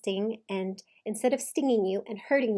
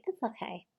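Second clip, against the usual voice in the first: softer mimicking jab; mocking; 6 dB quieter than usual. Coach imitating husband mocking wife's calm reply, soft mock. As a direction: quietly parrot it back in mockery. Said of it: "he's mocking her".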